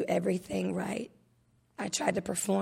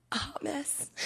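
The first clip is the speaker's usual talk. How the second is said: a softer, higher near-whisper; 7 semitones higher, 8 dB quieter than usual. Real, not acted. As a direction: let it slip out quietly. Self-deprecating, voice drops.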